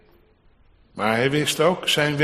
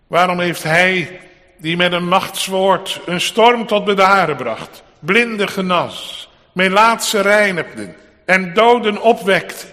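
raised, forceful pulpit questioning; impassioned preaching; 5 semitones higher, 5 dB louder than usual. Acted. Preacher asks congregation why Christ held back his power, impassioned. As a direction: press each rhetorical question on the congregation.

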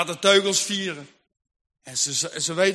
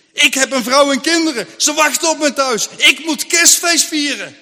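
desperate excuse; 5 semitones higher, 5 dB louder than usual. Acted. Farmer justifies himself desperately.

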